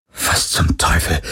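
langsam, tonlos gehaucht. Acted. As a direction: entsetzt nur ausgehaucht. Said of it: "hauchte Parker". (Parker haucht entsetzt beim Tod der Terranerin, tonlos)

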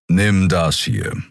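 slow, deliberate Skrier voice; slow gruff creature. Acted. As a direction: hand it over calmly and slowly. Skrier Kero hands crystal.

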